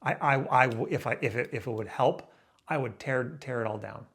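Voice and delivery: halting, stuttering restarts. Real, not acted. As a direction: stumble over the words. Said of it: "I'm stuttering here now".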